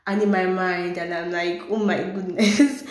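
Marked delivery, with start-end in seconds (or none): 1.7-2.9 exasperated laugh, drawn out; irritated laugh. Retold or imitated. Recalling her irritation at the guy, laughing. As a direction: laugh it out in disbelief. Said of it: "I just literally got so irritated".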